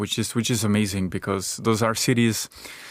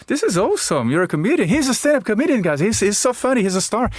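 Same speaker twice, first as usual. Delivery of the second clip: much higher, gushing with excitement; excited fan; 9 semitones higher than usual. Retold or imitated. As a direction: rave like a starstruck fan. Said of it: "I thought he was gonna say".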